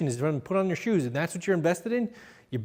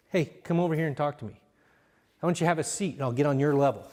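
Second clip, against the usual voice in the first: calm invitation; 2 semitones lower, faster than usual. Shown as a demonstration. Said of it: "without getting loud".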